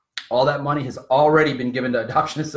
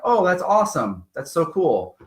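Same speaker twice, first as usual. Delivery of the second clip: higher-pitched, mildly excited retold reaction; pleased reaction; 4 semitones higher, 3 dB louder than usual. Couple reacting to the adoption agency's call, pleased. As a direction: react as if hearing good news. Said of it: "We're like".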